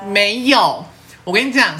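high-pitched flustered denial; flustered friend denies clinging, high and protesting; indignant protest. Real, not acted. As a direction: protest it's not true, squeaking.

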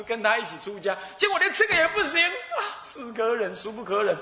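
put-on high, pleading complaint of an old man, half laughing; mock-tragic whining about his hard life; hammed-up wailing lament. Old man wails to the monk after being refused. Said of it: "说着就坐在庙门口哭起来".

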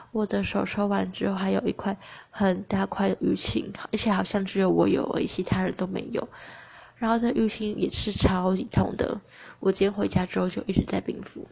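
talking through braces; words blurred by a brace. Real, not acted. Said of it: "因为我现在在戴牙套".

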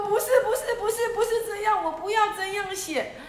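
lion refusing the letter, giggling; laughing protest. Acted. Lion rejects vulture's letter.

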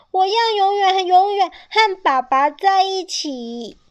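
determined shout. A narrator's reading. Child shouts while running.

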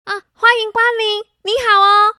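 bright, quick welcome to customers; cheerful greeting. Acted. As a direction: greet them brightly and fast. (热情的招呼)

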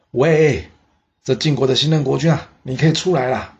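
high, loud call toward the screen; a king's bright loud summons. Acted. King calls ruler from behind screen.

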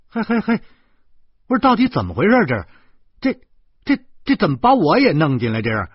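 loud, high, rapid outburst; furious shouting at a friend; angry cursing. A narrator's reading. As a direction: rail at him in disbelief. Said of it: "我盯着徐大光骂".

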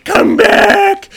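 high, loud mock yell; calling after him. Dragon trying to get the sailor, loud calling. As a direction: shout to stop someone fleeing. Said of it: "she's trying to get him".

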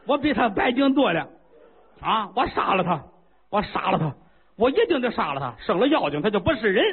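high, outraged royal shouting; a king beside himself, giving orders; furious king. Acted. King keeps ranting.

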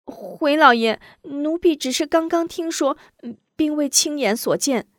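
high careful servant voice; meek high maid; cautious maid. Acted. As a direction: hedge your words to the master. Maid answers master.

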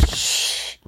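soft unvoiced shh; whispered shush. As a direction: hush him with a whisper. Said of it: "比个嘘".

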